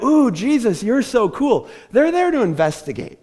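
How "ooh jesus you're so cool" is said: mock fanboy gushing. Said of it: "They're not there to be like".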